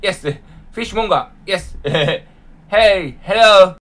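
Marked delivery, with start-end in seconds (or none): 2.7-3.8 vendor call. Pretend. Calling like a fish seller.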